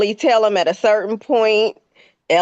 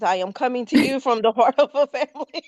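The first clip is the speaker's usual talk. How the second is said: brisk, earnest TV reporter delivery; news reporter voice; 3 semitones higher, faster than usual. Pretend. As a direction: mimic a live broadcast journalist. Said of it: "it is the reporting voice".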